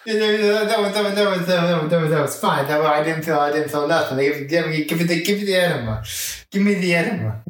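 put-on slurred repeating drunk talk; blackout drunk. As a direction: slur it, swaying drunk. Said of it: "swaying side to side as he says that".

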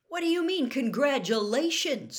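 Harry can't believe what he hears; baffled disbelief. A narrator's reading.

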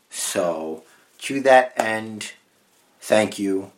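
deliberate, pausing press-statement delivery; mock official statement. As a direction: read it out like a prepared legal statement, tongue in cheek. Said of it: "you had an official statement prepared".

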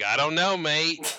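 put-on a light Australian accent on "I don't know, mate". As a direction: drop in a casual Aussie twang, half-joking. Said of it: "That's my Australian".

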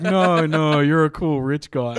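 hammed-up condescension; mock posh bloke. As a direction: talk down like a smug rich guy. Mocking the posh guy.

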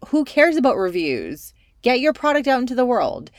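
rally them like a friend who believes in them; fired up. Real, not acted. Urging listeners to get their product out, fired up. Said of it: "my tone of voice just increased".

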